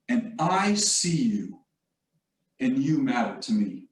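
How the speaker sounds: slow, sincere retold words, dropping low at the end; genuine, intentional. College president to his faculty at a retreat, genuine and intentional. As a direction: say it deliberately, with a pause between the halves. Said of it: "It was genuine and it was intentional".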